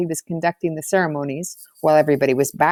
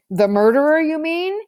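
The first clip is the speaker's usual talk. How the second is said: dramatic interruption; 9 semitones higher, 4 dB louder than usual. A narrator's reading. Toby cuts in dramatically.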